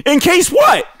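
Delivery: high-pitched cheeky shout-back; imitated wise-ass question; wise-ass heckle. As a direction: challenge the teacher like a smart-aleck kid. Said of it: "the fucking best wise ass".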